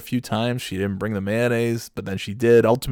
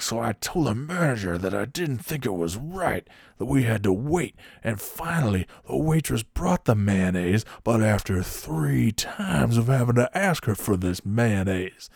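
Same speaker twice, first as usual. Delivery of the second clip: mock seething, words dragged out; imitating a pissed-off customer. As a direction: stretch out the grievance in a put-on voice. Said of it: "he's really pissed about this mayonnaise".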